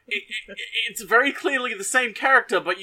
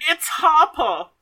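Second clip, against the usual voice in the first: triumphant; 8 semitones higher, 4 dB louder, much slower than usual. Real, not acted. Finally remembers the name.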